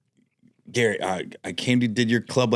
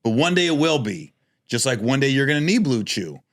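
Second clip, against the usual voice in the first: ad read. Pretend. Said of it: "Let's do a mock one".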